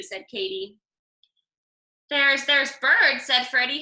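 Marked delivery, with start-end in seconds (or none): 2.1-3.2 excited. Acted. Freddie's excited idea.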